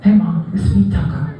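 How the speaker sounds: a lightly lisped dog leaving a message; lisping dog voice. Retold or imitated. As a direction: play the dog calling mom, slight lisp. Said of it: "imagine that he has a lisp".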